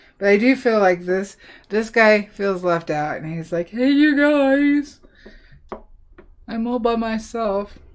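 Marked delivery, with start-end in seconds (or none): 3.7-7.7 cartoon giraffe voice, guys stretched out. Voicing a left-out giraffe in a drawing: giraffe voice. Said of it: "it's your giraffe voice".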